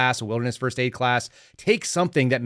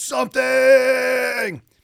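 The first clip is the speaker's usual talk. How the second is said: mock raw, loud, very high, drawn-out shout; 12 semitones higher, 5 dB louder than usual. Retelling the first word someone yelled in the morning: imitating a drawn-out yell. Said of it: "He just yells".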